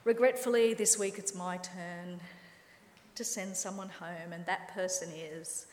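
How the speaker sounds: a gentle Bake Off judge sending someone home; calm announcement. Retold or imitated. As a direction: break the news gently like a TV host. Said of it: "conducted very calmly".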